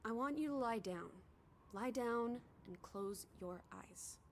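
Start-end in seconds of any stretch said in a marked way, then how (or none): 1.7-4.2 soothing. Acted. Soothing a weakened companion.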